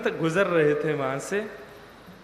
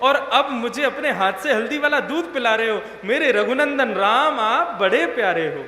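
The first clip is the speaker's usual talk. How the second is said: joyful devotion; 4 semitones higher than usual. Acted. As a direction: laugh with loving joy. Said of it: "वो क्या कहता है".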